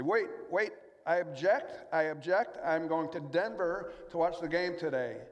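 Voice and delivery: indignant passenger protest. Retold or imitated. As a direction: protest the wrong flight like a stubborn passenger. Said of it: "And I say".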